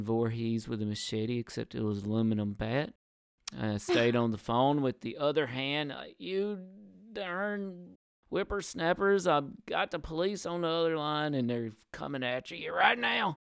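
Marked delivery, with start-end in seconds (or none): 6.2-13.4 put-on high, slowed cranky old coot; old prospector. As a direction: holler like a grumpy old-timer. Acting out yelling at the kids.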